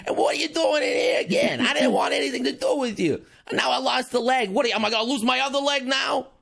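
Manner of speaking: put-on New York accent, building to an upset shout; fed-up New York cat with a New York accent. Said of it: "I gotta get my New York and accent here".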